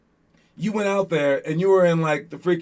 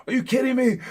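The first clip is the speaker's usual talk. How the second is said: put-on mad at the kid; 6 semitones higher than usual. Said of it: "I got mad at the kid".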